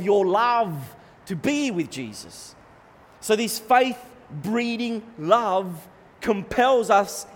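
loud, ringing proclamation; impassioned preaching. Real, not acted. Preacher proclaiming what faith compels, impassioned preaching. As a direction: declare it forcefully with weighty pauses.

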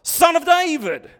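loud, high shout to be heard. Retold or imitated. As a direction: call out over a crowd. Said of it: "he cries out louder".

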